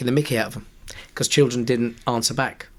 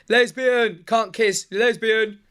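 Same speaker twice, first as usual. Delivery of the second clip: put-on children shouting; 9 semitones higher, much slower than usual. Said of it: "They were shouting".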